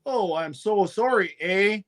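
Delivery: lightly mimicked Canadian apology; a hint of put-on Canadian; Canadian accent. Mocking last year's Canadian act, lightly put-on Canadian accent. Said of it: "you were doing a Canadian accent".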